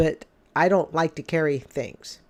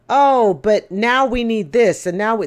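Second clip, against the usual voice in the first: mock whine; 4 semitones higher, 5 dB louder than usual. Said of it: "it's gonna be".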